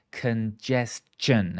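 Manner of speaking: "Congestion" slowly, syllable by syllable, with CH; CH sound. Shown as a demonstration. Teacher showing students the CH sound in "Congestion", slowly broken up. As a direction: stretch out "Congestion", ending in a CH-un sound. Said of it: "say it with the C H sound".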